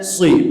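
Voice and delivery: "si" with a heavy emphatic s; thick sad. Shown as a demonstration. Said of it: "pastikan sad tebal".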